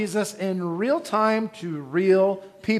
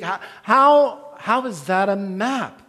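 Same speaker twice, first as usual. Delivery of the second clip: puzzled Matthew; 3 semitones higher, 3 dB louder, slower than usual. Retold or imitated. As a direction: push back, confused, pitch up and louder. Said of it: "and he says".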